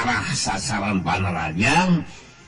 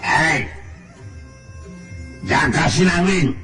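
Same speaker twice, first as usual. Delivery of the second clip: higher-pitched defiant challenge; villain's challenge; 5 semitones higher than usual. A narrator's reading. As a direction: call the opponent out, raised and combative. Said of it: "neuteub seukeut kanu dilawan tos nyarita". (nangtang musuh, sora ngaluhuran)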